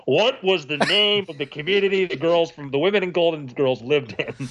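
exaggerated, intoned quiz question; quizmaster character voice. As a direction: read the question in the host's theatrical voice. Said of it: "In his voice".

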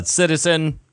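stiff, mechanical robot speech. Acted. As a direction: speak like a clunky android. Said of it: "Stop talking like that".

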